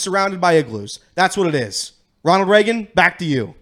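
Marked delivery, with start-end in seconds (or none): 2.2-3.5 loud. Acted. Weather bit sign-off.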